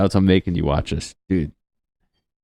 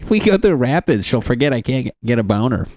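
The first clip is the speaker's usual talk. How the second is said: mock old guy; 4 semitones higher, faster than usual. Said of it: "They're like".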